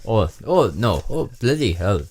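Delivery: put-on lightly done Indian accent; a comic stab at an Indian accent. Co-host asks for an Indian voice, comic Indian accent. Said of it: "you have to do an Indian accent".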